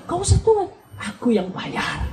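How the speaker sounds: high start, drawn-out "I'll pay"; showy, slow offer to foot the bill; acted generous boyfriend. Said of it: "Pacar bilang".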